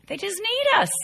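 They just need us, lifted high on need; emphasis. Shown as a demonstration. Teacher to class, need punched high. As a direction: stress need with a sharp high peak. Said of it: "repeated key line".

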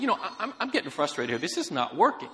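mildly exasperated customer, stumbling at the start; lightly acted frustrated complaint; retold grievance with a touch of frustration. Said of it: "Now she's frustrated".

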